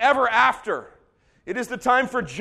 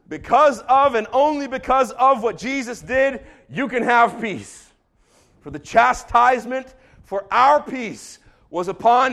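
emphatic preaching; 3 dB louder than usual. Real, not acted. Preacher's climactic proclamation.

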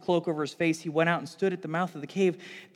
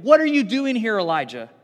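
voice of God; 4 semitones higher, 9 dB louder than usual. Acted. The word of the Lord questions.

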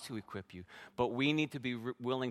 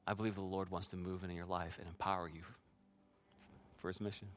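softer, lower retold reassurance; gentle encouragement; 4 semitones lower, 7 dB quieter than usual. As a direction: quietly encourage a nervous friend, imitated. Friend gently encouraging him, retold.

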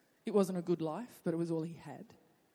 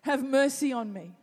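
shouting louder; 4 semitones higher, 5 dB louder than usual. Acted. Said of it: "he only shouted louder".

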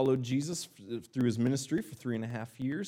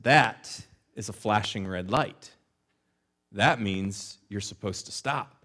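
slow, pointed fatherly instruction; lecturing father; 3 semitones lower than usual. Retold or imitated. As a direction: spell it out slowly like a stern dad. Father lecturing son, retold.

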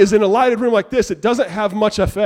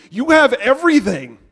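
rising preaching emphasis; 6 semitones higher, 4 dB louder than usual. Real, not acted. Building sermon list.

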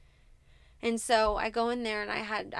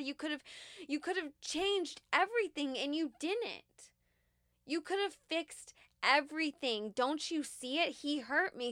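raised pitch, pleading and accusing God; retold angry prayer; 3 semitones higher than usual. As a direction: confront God, high and strained. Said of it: "I was even mad and so angry".

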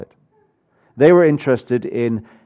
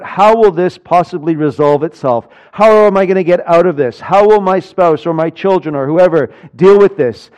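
worried thoughts, higher and louder; fretting; 4 semitones higher, 5 dB louder than usual. Acted. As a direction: fret aloud in a stream of anxious questions. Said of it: "We are always thinking about".

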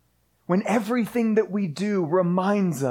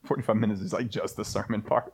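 hushed aside; 11 semitones lower, 7 dB quieter, faster than usual. Real, not acted. Aside clarifying the joke.

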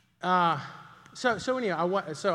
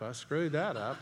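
laughing admission; 4 dB quieter than usual. Retold or imitated. Older dad to congregation, laughing at his mistake. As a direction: repeat it through a laugh. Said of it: "you go".

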